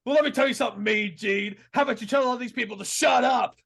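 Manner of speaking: lightly voiced Hogan, rising into a shout at the end; Hulk Hogan impression. Cutting a heel promo on Mean Gene, lightly imitating Hogan. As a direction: swagger it like a heel wrestler, then shout. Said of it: "And Hulk Hogan goes".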